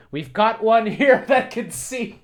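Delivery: high, laughing voice of awed shoppers; mocking laughter. Vlogger laughing as the shoppers marvel at him. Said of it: "Oh, my gosh".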